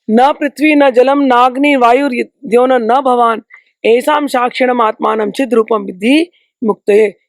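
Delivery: slow measured chanting of a shloka; Sanskrit verse recitation. Acted. Teacher reciting an Ashtavakra verse to his student, slow and measured. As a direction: intone the verse slowly, each word weighed.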